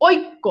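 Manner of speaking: ঐক্য with ঐ said as an o-i glide, then a held break before the final syllable. Shown as a demonstration. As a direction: say ঐক্য in two parts, "oik", "ko". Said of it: "ওই এর উচ্চারণ হবে অরস্বই".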